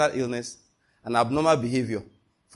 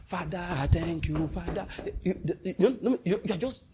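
thankful prayer; 3 semitones higher than usual. Retold or imitated. Praying while dancing to no music.

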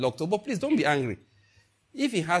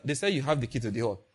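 quick polite request; 3 semitones lower, faster than usual. Retold or imitated. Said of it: "You just go there and say".

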